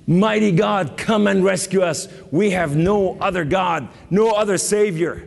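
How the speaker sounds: preacher voicing a king's urgent prayer, not sobbing; crying out to God. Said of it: "he cried out before the Lord".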